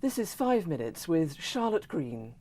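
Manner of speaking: measured, formal news read; newsreader voice. Shown as a demonstration. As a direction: announce it like the BBC news. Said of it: "in your newsreader voice".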